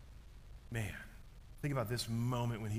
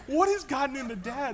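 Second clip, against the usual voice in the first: puzzled sons; 12 semitones higher, 7 dB louder than usual. Retold or imitated. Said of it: "They were like".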